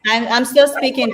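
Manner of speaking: loud and insistent; firm interruption. Real, not acted. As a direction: cut them off, raising your voice. Cutting off interruption.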